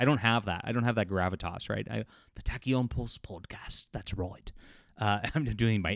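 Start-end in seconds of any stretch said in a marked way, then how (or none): 2.3-4.5 breathy, hushed, bad British accent drifting into Australian. A podcast host says the show's name in a bad british accent, slipping australian. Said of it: "I think I I went Australian there".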